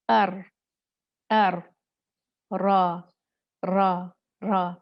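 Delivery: अर and रा with just one or two rolls; light trill. Shown as a demonstration. Teacher showing the right, brief trill. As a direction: keep the trill short. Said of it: "सिर्फ एक या दो".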